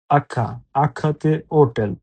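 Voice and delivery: হোটেল said as otel, h dropped; silent h. Shown as a demonstration. Teacher shows students হোটেল with silent h. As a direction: model হোটেল with a silent h: o-tel. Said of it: "প্রথমে যদি আখা থাকে, ... উচ্চারণ হয় না".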